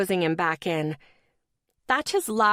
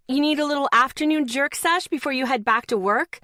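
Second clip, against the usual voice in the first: mocking heckle; 6 semitones higher, 4 dB louder than usual. Heckling strangers on the street.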